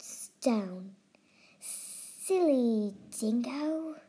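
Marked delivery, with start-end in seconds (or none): 1.6-4.0 very slow, hissing lizard; lightly voiced hissing lizard. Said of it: "he hissed".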